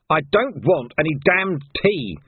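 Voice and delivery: loud, annoyed outburst; angry shout. Acted. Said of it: "shouted Vimes".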